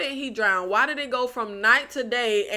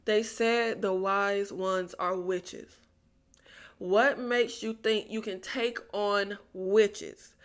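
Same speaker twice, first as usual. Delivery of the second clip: slow, low and softer, deadpan; hushed disbelief; 5 semitones lower, 8 dB quieter, slower than usual. Real, not acted. Reviewer questioning the plan to take on witches, hushed disbelief. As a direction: let it sink in quietly and slowly.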